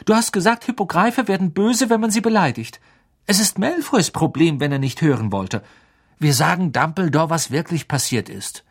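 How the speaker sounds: lightly voiced insistent boy; earnest young Harry. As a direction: argue it keenly, pitched high. Harry urgently defends Hagrid.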